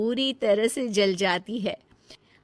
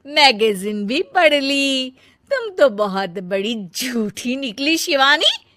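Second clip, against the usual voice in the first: taunting scold; 2 semitones higher, 5 dB louder than usual. Acted. Elder sister-in-law scolds, taunting.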